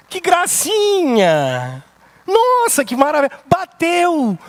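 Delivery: mock delight at a crashed car; mock sweet praise. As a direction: gush over the crash sarcastically. Ironic praise after son's crash.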